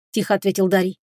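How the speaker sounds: usual speaking voice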